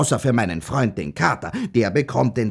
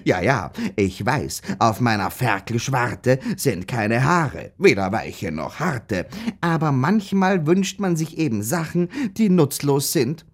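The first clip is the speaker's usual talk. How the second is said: poem recitation. Acted. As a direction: recite your own verse for effect. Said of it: "sehr lieb gereimt habe".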